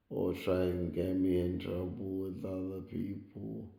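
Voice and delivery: sleepy voice trailing away; nodding off. Real, not acted. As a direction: drift off to sleep mid-sentence. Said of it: "I'm sorry I'm falling asleep".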